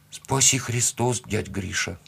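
put-on slow, lightly rasped child's thanks; hoarse little boy, tailing off softly. A narrator's reading. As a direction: thank him slowly in a hoarse voice. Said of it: "хрипло сказал Федя".

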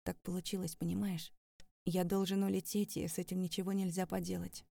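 soft consoling. Acted. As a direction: soothe her gently. Сергей утешает героиню. (тихо и мягко, утешая)

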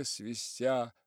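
usual speaking voice

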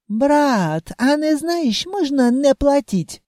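put-on sly accented ask. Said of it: "хитро мне подмигнул".

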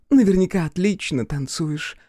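block his way with a tipsy leer. Acted.

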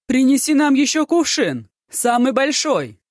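high, loud call across the room. A narrator's reading. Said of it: "крикнул слуге".

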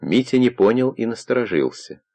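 usual speaking voice

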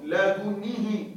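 "لدنه" drawn out, dal with damma, nun with kasra; slow pronunciation demo. Shown as a demonstration. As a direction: stretch out "لدنه" with full vowels. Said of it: "يمكن ضم الدال وكسر النون". ("لدنه" بضم الدال وكسر النون)

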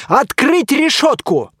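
loud, slow high order; command. Acted. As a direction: order the gate open. Hero orders gate opened.

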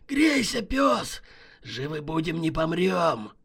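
rally him roughly; hoarse rough cheer. Acted. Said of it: "сиплым голосом прошипел Шайба".

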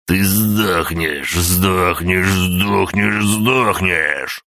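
high, slow, repeated death threat; furious threat. A narrator's reading. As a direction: spit out each сдохнешь. Old man repeating a threat. (злобная угроза)

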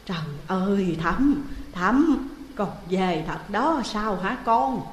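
a grandmother who can't believe he's back, calling out; grandmother calling the grandson. Acted. Grandmother to the returned grandson, loud and disbelieving.

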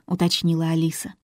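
ordinary delivery

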